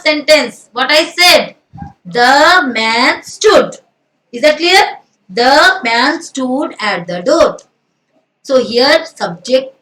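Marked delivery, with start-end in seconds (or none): 2.0-3.8 The man stood, stretched out very slowly; slow dictation. Shown as a demonstration. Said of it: "teacher reading example slowly". 5.3-7.6 The man stood, stretched out very slowly; slow dictation. Shown as a demonstration. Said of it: "teacher reading example slowly".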